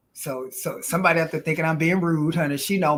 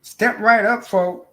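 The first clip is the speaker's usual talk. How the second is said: a light carnival barker call, a bit louder; 4 semitones higher, 5 dB louder, slower than usual. Retold or imitated. To her viewers, echoing the clip: mock barker call. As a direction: call out like a fairground barker, half in fun.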